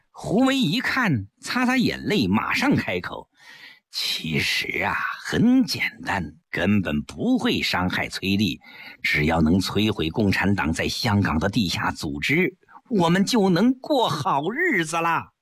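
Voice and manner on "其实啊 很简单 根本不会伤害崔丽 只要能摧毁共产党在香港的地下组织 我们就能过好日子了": lower, sly persuading voice; lightly voiced scheming husband.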